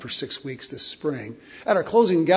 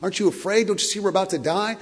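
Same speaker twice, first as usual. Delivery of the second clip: higher, louder frightened plea; panicked disciples; 6 semitones higher, 4 dB louder than usual. Retold or imitated. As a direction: cry out to the sleeping master in fear. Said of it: "They're saying".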